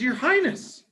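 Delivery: high, squeaky mouse voice; be a tiny worried mouse; Mama Mouse asking the lion if he is okay; small mouse voice. Acted. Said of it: "She says".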